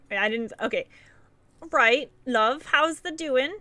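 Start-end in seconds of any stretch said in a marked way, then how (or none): 1.7-3.6 light mock British accent, rising on the question; a second half-hearted go at a British accent. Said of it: "I hate doing the accents".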